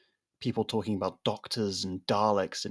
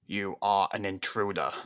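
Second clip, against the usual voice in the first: monotone robot. Acted. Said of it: "its voice monotone and electronic".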